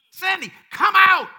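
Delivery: slow, high, drawn-out shout; shouted summons. Acted. Preacher calling a congregant out by name, drawn-out shout. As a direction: call the name, then shout the command long.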